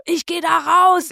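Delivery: put-on boyfriend's resolve. Quoting the boyfriend wanting to go outside, firm and slow. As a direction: plant each word, the brave boyfriend.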